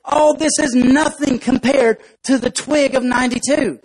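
a touch of a veteran's boast; nerdy ant. Acted. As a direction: brush it off, proud old hand. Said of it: "the real nerdy looking ant".

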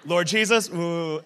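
lightly imitating a tearful prayer; a weepy dad praying, hammed up; mock crying. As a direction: choke up on cue, in mimicry. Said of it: "can cry almost on command".

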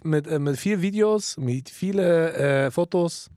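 a hint of Russian accent in German; light Russian accent. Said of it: "leicht russischer Akzent, das war lustig gemeint".

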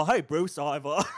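bad celebrity impression, faltering; a feeble stab at a famous actor's voice; Christopher Walken. Podcaster greeting Bruce as the actor, bad Walken impression. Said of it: "that was a bad Christopher Walken".

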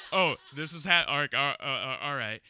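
high, loud start that settles down; stammer, trying to gather yourself; flustered stammer. Acted. Boy facing the closet, mock flustered stammer.

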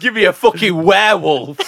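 high, loud laughing demand. Real, not acted. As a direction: laugh while you say it. Still laughing at the joke.

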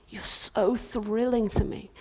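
slow tender whisper; a hushed, tender whisper. Acted. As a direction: whisper it lovingly. King's repeat whispered.

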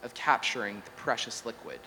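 measured oracular recital; deliberate, solemn-style reading; mock-scripture recitation. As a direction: recite it like a prophecy from a made-up scripture. Recites a mock-scripture AI god monologue.

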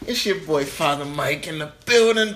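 lightly voiced preacher greeting; a hint of a church pastor hyping the crowd; preacher persona. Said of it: "sound effects for Father Mike".

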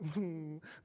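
short hummed impression noise; a quick mock character whimper; Frank Spencer. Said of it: "amazing impression of Frank Spencer".

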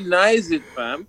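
Toronto slang nice it fam, trailing off; Toronto street slang, nice it fam; Toronto slang accent. Retold or imitated. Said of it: "how they say it".

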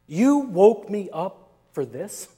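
lightly voiced annoyed Jesus; a mild put-upon grumble; annoyed rebuke. Imagining Jesus scolding the disciples, mildly annoyed. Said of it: "this is the way I imagine it".

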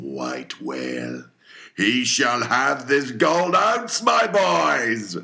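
loud, slow proclamation rising to a roar. A narrator's reading. Captain proclaims the reward to the whole crew, loud and rising. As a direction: proclaim the reward, building to a shout. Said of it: "with a high raised voice exclaiming".

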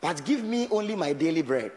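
scripture prayed aloud, pleading; prayer voice. Shown as a demonstration. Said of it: "I say".

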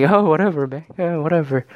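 mock dude-bro indifference; frat bro. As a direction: imitate a dismissive frat bro. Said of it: "he's like a fucking frat bro".

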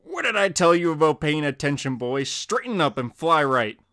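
a hint of a stern father, slowing on the last line. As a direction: lecture the boy like a strict dad, lightly voiced. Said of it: "His father appears and slaps him".

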